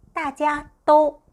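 teacher reading 大家都 slowly; slow model reading. Shown as a demonstration. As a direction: stretch 大家都 for learners. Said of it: "여러분 모두".

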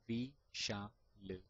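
V-sha-l picked apart sound by sound; split into parts. Shown as a demonstration. Teacher to stammerers: V-sha-l broken into parts. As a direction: say V-sha-l piece by piece. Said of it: "pick all the letters like".

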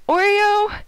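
high, loud cry of the name; startled scolding shout. Real, not acted. Player to the horse that scared her, shocked shout. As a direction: yell the culprit's name in shock.

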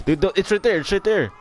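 panicking gamer. Real, not acted. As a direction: beg frantically, pointing it out. Begging friend not to kill him.

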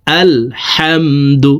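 "আলহামদু" slowly, its "হা" from mid-throat. Shown as a demonstration. Teacher showing where ha comes from, mid-throat "হা" in slow "আলহামদু". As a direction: breathe the "হা" of "আলহামদু" from the middle of the throat. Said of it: "হলকের মধ্যখান থেকে উচ্চারণ করব".

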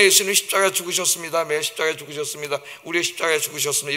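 mock sermon rattled off fast and soft; rote sermon. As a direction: rattle it off like a tired habit. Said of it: "이런 설교를 매일 듣다 보니까".

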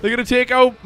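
hammed-up alarm as the saint; loud cry to the boys, easing off; Saint David. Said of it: "I'll do his voice".

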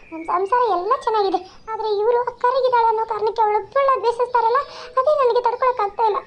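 a mother fed up with her husband; lightly voiced fed-up mother; exasperated mother. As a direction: vent the frustration as the mother. Mother complains about husband.

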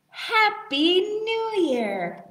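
high, slow, cheering "Happy New Year"; new year countdown crowd. Shown as a demonstration. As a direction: celebrate midnight, drawn out. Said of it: "Should we try one more time?".

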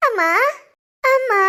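hammed-up cry for mother; put-on wailing. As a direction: call out to mother in mock misery. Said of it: "என்னம்மா நடிக்கிறா". (போலி அழுகையுடன் அழைப்பு)

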